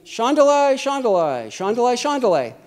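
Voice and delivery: acted tongues aloud for the room; speaking out publicly. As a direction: call out the syllables in full voice. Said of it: "you don't have somebody saying".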